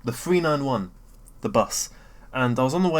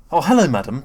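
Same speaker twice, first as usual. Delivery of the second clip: lightly voiced jolly greeting; mock-polite bus driver hello; cheerful bus driver greeting; 7 dB louder than usual. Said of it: "he'll have that really enthusiastic tone".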